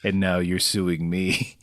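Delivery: low, soft brooding Moose voice; Moose's voice. Acted. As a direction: sink low and hurt, like a wronged dad. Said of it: "this is Moose's voice".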